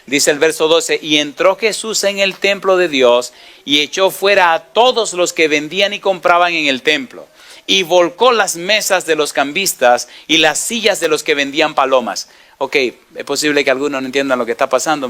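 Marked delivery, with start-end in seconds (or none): 1.0-12.3 slightly higher, measured reading voice; solemn Bible reading; scripture reading. Real, not acted. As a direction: read the verse with solemn weight.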